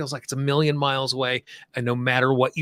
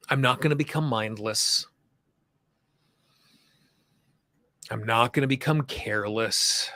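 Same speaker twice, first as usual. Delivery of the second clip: measured lead-and-repeat delivery with long pauses; guided tapping affirmations. Shown as a demonstration. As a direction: say each affirmation phrase by phrase, leaving room to repeat. Leads repeat-after-me tapping affirmations.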